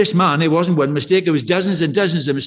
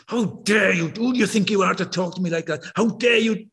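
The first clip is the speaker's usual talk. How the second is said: retold fury; 3 semitones higher than usual. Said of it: "she was absolutely furious".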